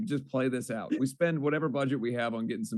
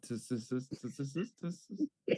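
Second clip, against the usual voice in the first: mock monkey tsk; 7 dB quieter than usual. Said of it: "what do you think they said".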